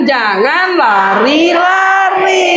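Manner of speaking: drawn-out slow warning call; slow sing-song scold at the kid; mock scolding mother. Mother calling out to her running child, slow drawn-out warning. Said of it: "Makanya mama bilang".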